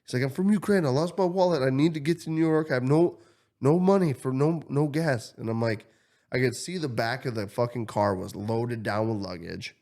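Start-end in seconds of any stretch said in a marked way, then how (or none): 0.2-5.3 high, louder mock pleading; imitating desperate stranger. Stranger begging for gas money, high mock pleading. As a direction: beg like he did.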